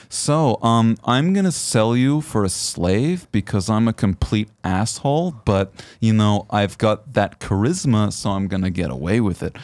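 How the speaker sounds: lightly voiced John Malkovich drawl; slow, smug Malkovich delivery; John Malkovich impression. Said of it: "I love John Malkovich".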